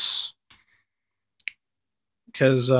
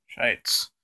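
whispered curse; 4 semitones lower, 11 dB quieter than usual. Real, not acted.

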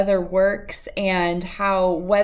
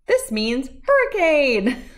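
laughing; 6 semitones higher than usual. Real, not acted. Laughs at hurricane symbol.

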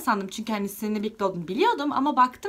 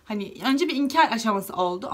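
ordinary talk

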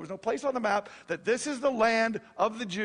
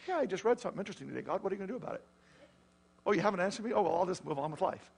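mock casual indifference; much faster than usual. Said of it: "He's not casually going".

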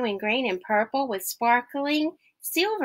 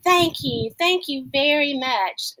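playful thanks; 4 semitones higher than usual. Acted. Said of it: "bubbled playfully".

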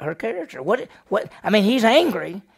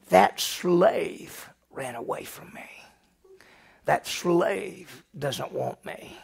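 hushed slow whisper; 3 dB quieter, much slower than usual. Acted. Wife voiced complaining.

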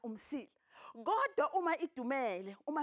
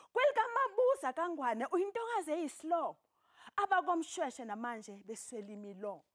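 ecstatic praise shouting; 3 semitones higher than usual. Acted. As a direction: call it out like an imbongi. Teacher recites the fourth stanza.

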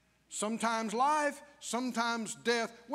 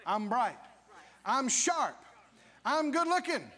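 rising confident affirmations; 5 semitones higher than usual. Shown as a demonstration. Parent teaching little ones to speak blessings, building proudly. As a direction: grow bolder with each claim. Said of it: "we tell our little ones".

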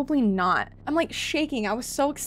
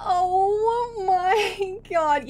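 very slow, higher, tearful; drawn-out despair; 6 semitones higher, much slower than usual. Real, not acted. Gamer groaning in tearful disbelief after losing. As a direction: let it drag out in disbelief.

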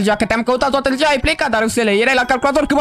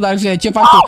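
sudden shout; 4 semitones lower, 5 dB louder, faster than usual. Acted. Confronting a friend, shouting.

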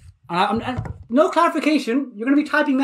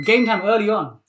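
louder, lively announcement; announcing call; 3 dB louder than usual. Real, not acted. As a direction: call it out to the class. Announcing the game, first take.

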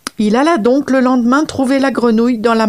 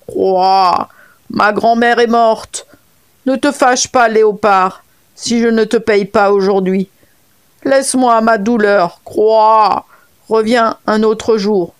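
frog voice; slower than usual. Acted. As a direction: play the mourning frog begging for time. Frog answers the leopard. (voix de grenouille légèrement plaintive)

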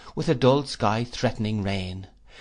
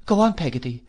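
put-on higher, anxious child's voice; frightened; 6 semitones higher, 3 dB louder than usual. A narrator's reading. Boy urging his nurse to continue, frightened. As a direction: urge her on nervously, pitched up. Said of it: "said I, more frightened than before".

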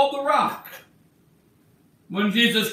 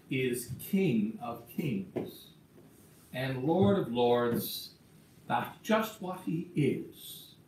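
low, soft and slowing down; hushed reverence; 6 semitones lower, 6 dB quieter than usual. Real, not acted. Preacher telling the congregation the King has come, hushed reverence. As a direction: drop right down into slow, quiet awe. Solemn climax after terror, comfort.

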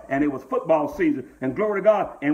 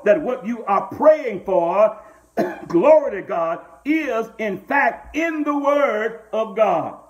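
preaching at full force; 2 semitones higher than usual. Acted. Pastor pressing the church with scripture, rousing preaching. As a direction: build the congregation up, call and press.

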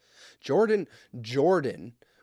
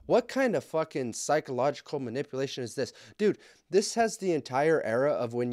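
outraged rant; 5 semitones higher, 4 dB louder than usual. Real, not acted. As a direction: fume at this guy out loud. Ranting at husband in post.

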